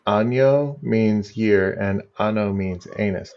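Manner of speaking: año with the ñ said as ny, ano with a plain n; careful Spanish año versus ano; Spanish pronunciation. Shown as a demonstration. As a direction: say año and ano slowly so the n sounds differ. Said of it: "My favorite thing about the Spanish language".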